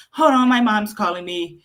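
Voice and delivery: lightly voiced disappointed kid; disappointed daughter. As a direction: imitate a child's put-out sigh of a line. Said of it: "She just sounds so disappointed".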